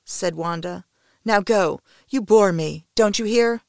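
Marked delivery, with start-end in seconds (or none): 1.2-3.6 louder, curt and impatient; cold dismissal. A narrator's reading. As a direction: send him away, fed up. Wanda dismisses him coldly.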